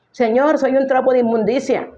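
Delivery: high whining plea; mock self-pity. Preacher mocking the groveling prayer, high whiny voice. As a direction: mimic a groveling worshipper. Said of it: "prédicas que te ponen a repetir".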